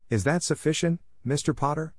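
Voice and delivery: a hint of a polite, proper professor; McGonagall voice. A narrator's reading. Narrator voicing McGonagall.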